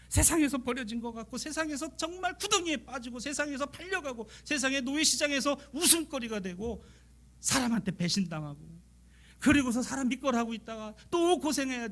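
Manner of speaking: high, pleading sermon cadence; impassioned preaching. Acted. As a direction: lament rising in pitch. Preaching at full force. (높고 간절한 설교조)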